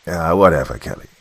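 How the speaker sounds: yelled. A narrator's reading. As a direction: brush him off loudly, trailing down. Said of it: "yelled his squad mates".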